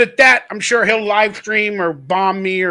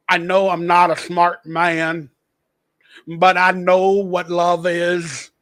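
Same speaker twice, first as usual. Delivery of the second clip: slow Forrest Gump drawl; slowed-down Forrest Gump imitation; Forrest Gump quote; 4 semitones lower, slower than usual. Host doing Forrest Gump for his listeners, slow drawl. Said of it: "I know I'm like Forrest Gump".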